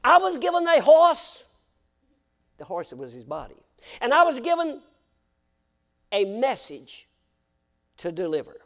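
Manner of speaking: quoting him in an Irish brogue, high and loud. Retold or imitated. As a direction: put on the Irish brogue he used. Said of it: "I can say it with the brogue".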